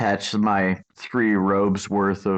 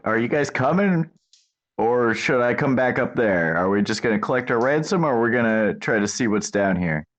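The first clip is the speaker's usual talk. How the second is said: mild mock yell; 3 semitones higher than usual. Player's character calls up from the pit, mild mock yell. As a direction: pretend to yell up without real volume. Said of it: "I'll just yell up, like".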